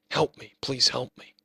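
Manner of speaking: lilting taunting mimicry; mock the plea in a sing-song. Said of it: "in a mocking, sing-song voice".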